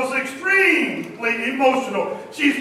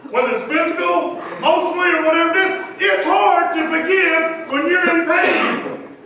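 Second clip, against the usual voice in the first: raised, preaching the pain home; preaching shout; 3 semitones higher than usual. Real, not acted. Preacher pressing the point.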